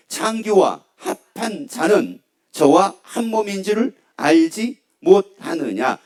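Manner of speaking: measured, slow reading from the Bible; solemn, spaced-out recitation; scripture reading. Real, not acted. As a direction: read the verse out deliberately, phrase by phrase. Reads scripture aloud.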